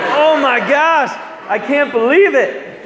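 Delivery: high, drawn-out mock freak-out; bugging out. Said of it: "he's bugging out".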